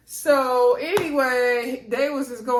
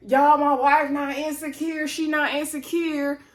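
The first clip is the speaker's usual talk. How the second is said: mock holler, drawn out and higher; imitated holler; 4 semitones higher than usual. Husband hollering across the wine bar about his wife, mock holler. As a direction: call it out slowly, imitating a man across a bar. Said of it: "he gonna holler across the wine bar".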